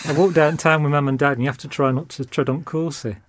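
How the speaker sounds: broad regional British home accent. Shown as a demonstration. Director demonstrating his childhood speech, in his regional home accent. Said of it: "that's how I used to talk when I was growing up".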